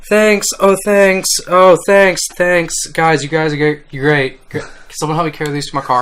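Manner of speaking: high, loud, mock-modest thank-yous; mock gushing humble studio. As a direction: play an overwhelmed winner thanking the crowd. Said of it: "They're like".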